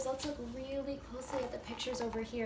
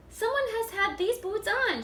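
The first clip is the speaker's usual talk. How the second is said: much higher, mock-huffy mother bear; huffy Mama Bear; 9 semitones higher, 7 dB louder than usual. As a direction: huff like an annoyed mama bear. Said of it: "she huffed".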